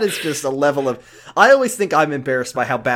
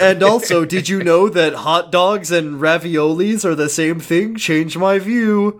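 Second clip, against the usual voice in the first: smug debater voice; 3 semitones higher, 4 dB louder than usual. Retold or imitated. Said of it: "he's like".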